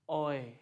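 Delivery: ओए as "oy", drawn out; E-U diphthong. Shown as a demonstration. Teacher naming the German E-U combination, slow diphthong. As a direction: glide slowly through ओए as one sound. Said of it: "इसको बोलते हैं".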